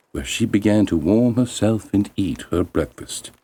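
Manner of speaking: usual speaking voice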